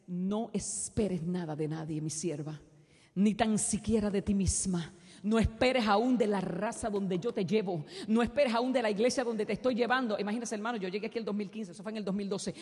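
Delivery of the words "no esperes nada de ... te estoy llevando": God's solemn command to his servant. Retold or imitated. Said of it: "me dice". (voz de Dios, grave y lenta)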